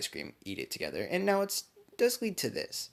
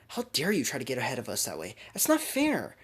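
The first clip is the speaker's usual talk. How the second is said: scolding; 3 semitones higher, 3 dB louder than usual. Acted. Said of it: "immediately just kinda scolding her".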